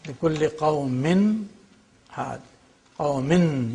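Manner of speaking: قَوْمٍ ending on a distinct n; clearly pronounced noon. Shown as a demonstration. Teacher demonstrating the rule to students, clearly pronounced noon in قَوْمٍ. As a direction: keep the n of قَوْمٍ at its own place. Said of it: "you pronounce the noon".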